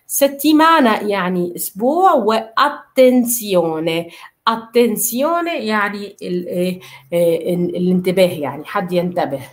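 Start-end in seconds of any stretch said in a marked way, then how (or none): 4.5-5.7 very slow "اتنسيوني" with a held t; doubled t. Shown as a demonstration. Teacher modelling repeated letters slowly, doubled t. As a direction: draw out "اتنسيوني", stopping on the double t. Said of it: "لازم ننطقها مرتين".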